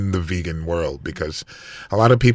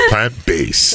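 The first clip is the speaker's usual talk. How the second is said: Australian accent; 6 dB louder, slower than usual. Shown as a demonstration. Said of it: "com sotaque australiano".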